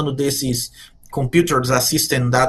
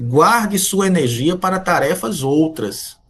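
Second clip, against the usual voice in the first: slow, weighty, "Guarde" falling; slow solemn advice; slower than usual. Shown as a demonstration. Professor counselling students on time, slow and solemn. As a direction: spell the counsel out word by word. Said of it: "se me fosse permitido um conselho".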